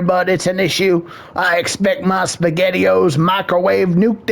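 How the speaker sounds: a lightly voiced Canadian-style bud guy ranting; hint of a hick complaining to the therapist; lightly voiced boyfriend griping about his girlfriend; redneck boyfriend. Plays redneck boyfriend character.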